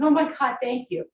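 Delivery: a playful exclaim of relief from the thighs; mock relieved muscles. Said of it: "that beautiful sigh running through your quadricep muscles going".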